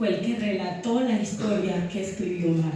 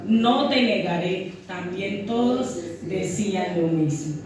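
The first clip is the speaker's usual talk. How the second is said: scripture reading. Acted. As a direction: read the passage solemnly to the church. Reads scripture aloud to congregation. (lectura bíblica pausada y solemne)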